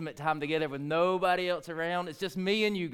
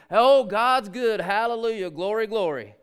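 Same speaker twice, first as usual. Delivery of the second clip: loud joyful praise; 3 semitones higher, 7 dB louder than usual. Real, not acted. Preacher shouting praise to the congregation, joyful and loud. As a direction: call out praise to God.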